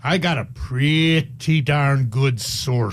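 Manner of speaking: slow, lilting Irish delivery; drawn-out Irish brogue; Irish accent. Real, not acted. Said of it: "why does he sound so Irish".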